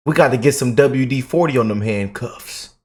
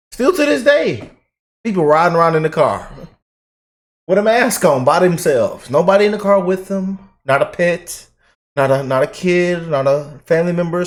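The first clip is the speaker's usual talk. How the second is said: incredulous rant; 6 semitones higher than usual. Real, not acted. Ranting about lone mask wearers.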